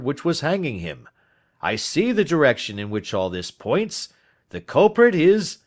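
excited friend, building to a high, loud finish; rising excitement as the answer dawns; excited Watson. Acted. Friend tells detective he has solved it, mounting excitement. Watson realises who the culprit is.

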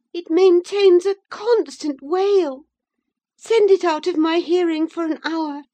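put-on high, loud young lady giving orders; imperious young woman. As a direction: dismiss the wailing child sharply. Isabella, wry then imperious.

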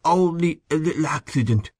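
high, thick-tongued, halting words; very thick speech. A narrator's reading. Injured man making light of his accident, very thickly. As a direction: brush it off with a clumsy, thick tongue. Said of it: "He spoke very thickly".

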